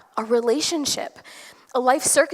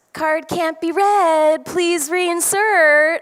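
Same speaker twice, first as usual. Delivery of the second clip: slow, higher machine-prompt voice, a bit louder; card reader voice; 6 semitones higher, 5 dB louder, much slower than usual. Retold or imitated. The gas pump's screen talks to her in a slow, higher machine voice. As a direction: spell it out like a gas pump screen talking. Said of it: "and it says".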